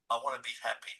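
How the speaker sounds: low and quiet, close to tears; soft, tearful confession. Retold or imitated. Telling the counsellor what he wants, low and soft with tears. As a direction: say it softly, as if with tears running.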